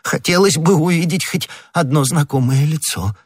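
high, plaintive outburst; eager exclamation. A narrator's reading. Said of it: "воскликнул господин Бонасье".

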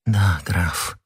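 softly affectionate; tender. A narrator's reading. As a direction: say it gently, dropping the pitch. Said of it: "нежно говорила миледи".

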